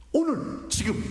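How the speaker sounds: 오늘 thrown very high, then 지금 high; emphatic call. Shown as a demonstration. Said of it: "외치는 강조". (오늘을 아주 높게 외치는 강조)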